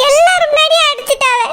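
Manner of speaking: choked, tearful complaint; sobbing. Acted. Elder daughter-in-law sobbing to Chellamma about the slap. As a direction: cry out the hurt of being slapped. Sister-in-law humiliated, slapped publicly.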